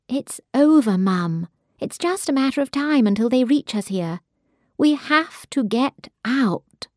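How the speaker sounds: desperate urging. Acted. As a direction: make her see it's over. Daughter begs mother to flee.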